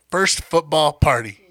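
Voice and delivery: First football party said slowly and carefully; slow down and nail First football party; slow careful retake. Real, not acted. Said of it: "That's a tongue twister".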